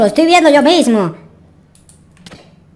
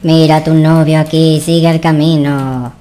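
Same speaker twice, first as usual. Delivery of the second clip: much lower, slow, menacing witch voice; 8 semitones lower, slower than usual. Acted. Witch taunting the girlfriend about her boyfriend, low and slow. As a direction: croak it out slowly like a sinister witch. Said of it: "todavía está esa bruja allá afuera".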